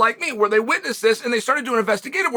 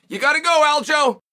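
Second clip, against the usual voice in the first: demo of coach's call; 4 semitones higher than usual. Shown as a demonstration. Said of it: "let me practice for you guys".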